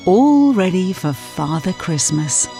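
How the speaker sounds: plain reading voice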